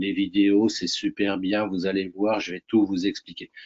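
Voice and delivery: flat, monotonous delivery. Demonstrating the boring way to explain making videos, in a monotone voice. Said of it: "d'avoir une voix monocorde".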